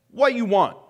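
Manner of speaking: casual Ebonics-style paraphrase; mock Ebonics. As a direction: toss it out in playful Ebonics. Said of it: "sorry, that's the Ebonic Bible".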